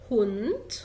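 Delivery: هونت ending in a crisp T; final D as T. Shown as a demonstration. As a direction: say هونت as "hoont". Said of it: "بتقرا ت".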